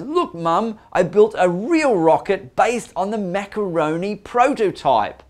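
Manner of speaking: put-on eager young Gru. Young Gru shows his mum the rocket, excited. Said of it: "young Gru goes".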